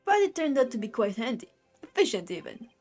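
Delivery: lightly voiced Brooklyn tough guy; Brooklyn accent. Justice minister to a nosy lawyer, light Brooklyn accent. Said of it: "a Brooklyn accent".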